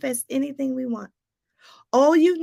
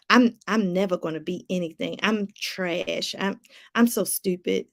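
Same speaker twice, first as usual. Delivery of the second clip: negative self-talk; 5 semitones lower than usual. Retold or imitated. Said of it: "Do you talk like that?".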